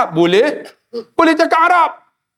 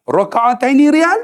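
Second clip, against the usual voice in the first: unsure question; 4 semitones higher than usual. Retold or imitated. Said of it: "dengan confident".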